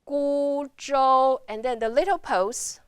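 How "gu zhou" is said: GU, ZHOU sustained on one level pitch; first tone, held. Shown as a demonstration. Teacher repeating gu zhou as a model, sustained level tones. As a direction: keep gu and zhou long and even. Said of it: "last your voice a little bit longer".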